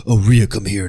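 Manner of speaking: low, soft creepy come-on; hammed-up sleazy seduction, low; mock creepy flirt. Vlogger mocking a creep with Rhea, low soft sleazy voice.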